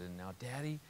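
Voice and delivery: softly retold sad little girl; understated sadness, hushed and without sobbing; tearful child, retold. Five-year-old in dad's arms, understated tearful sadness. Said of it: "just big, big tears".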